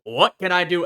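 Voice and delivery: gung-ho tinkerer; eager inventor. Retold or imitated. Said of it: "And they're like".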